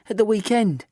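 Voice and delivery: sweetly. A narrator's reading. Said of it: "she says sweetly".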